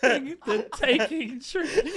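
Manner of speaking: slow mock Russian accent. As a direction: drawl it like a Russian. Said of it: "can you give us that accent again".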